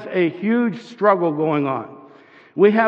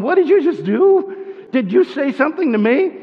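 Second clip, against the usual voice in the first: higher-pitched, startled double take; mock astonishment; 5 semitones higher than usual. Balaam to his suddenly talking donkey, in mock astonishment. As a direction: act out a disbelieving question.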